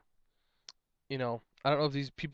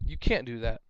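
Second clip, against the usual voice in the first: flat, lower, confrontational; blunt demand; 4 semitones lower than usual. Shown as a demonstration. Player bluntly tells opponent the move is illegal, confrontational. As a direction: say it as a blunt accusation. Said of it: "that just causes a confrontation".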